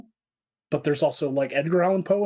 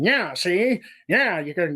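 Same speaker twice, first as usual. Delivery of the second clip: lightly voiced old-time cartoon gangster; imitation Looney Tunes gangster; 4 semitones higher, slower than usual. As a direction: do a hint of a thirties movie mobster. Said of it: "he'd do these gangsters".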